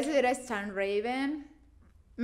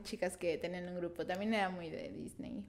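whisper; 4 semitones lower, 11 dB quieter than usual. Real, not acted. Whispered remark.

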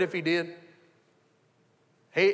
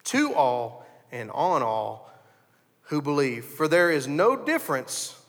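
slow, measured reading of the verse; low, unhurried Bible reading; scripture reading; 3 semitones lower, slower than usual. Acted. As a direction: read it like holy writ from the pulpit.

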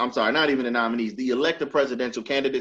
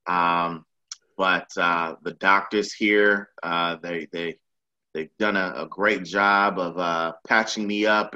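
mock Trump; 6 semitones lower than usual. Imitating Trump to his friend, lower and slowed. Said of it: "Nigga said after one day, he said".

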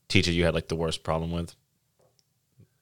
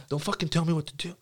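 mock squeaky rant; 9 semitones higher, 7 dB quieter than usual. Retold outburst.

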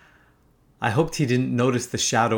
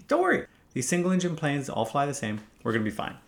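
light, quieter reassurance; reassuring; 6 dB quieter than usual. Retold or imitated. Pilot telling a nervous friend they'll be fine, reassuring. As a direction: brush off the worry softly.

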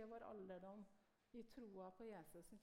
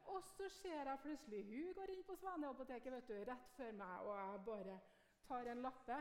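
excited retelling; 5 dB louder than usual. Retold or imitated. Preacher recalls the woman entering the pharmacy, excited. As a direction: rush the moment she walks in.

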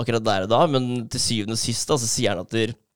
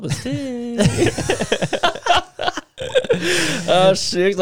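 laughing; 13 semitones higher, much slower than usual. Retold or imitated. Mimicking worshipping grass, laughing.

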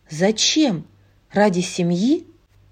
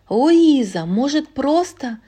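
raised voice calling after her; 5 semitones higher than usual. Acted. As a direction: call after the sister. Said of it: "крикнула Мирабель".

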